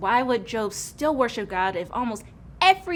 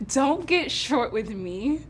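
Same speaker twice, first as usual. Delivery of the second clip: mock-offended hey; 3 semitones higher, 4 dB louder, much slower than usual. Mock offense at rude reply.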